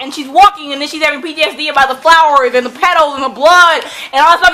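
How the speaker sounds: normal talking voice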